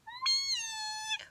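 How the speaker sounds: very high, soft meow; kitten squeak. A narrator's reading.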